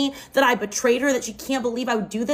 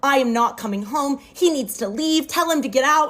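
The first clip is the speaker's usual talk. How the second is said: mock scream, only mildly raised; retold screaming; 3 semitones higher, 3 dB louder than usual. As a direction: act out a frantic refusal, pitch climbing toward the end. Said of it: "She's screaming. She's like".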